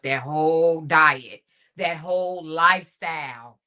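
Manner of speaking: light impression, punchy and drawn out; Kimberly Patterson voice. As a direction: lightly mimic a radio colleague. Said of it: "in my Kimberly Patterson voice".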